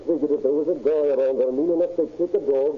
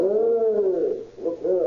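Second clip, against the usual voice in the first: excited call; 8 semitones higher, much slower than usual. Acted. Officer calls the others over.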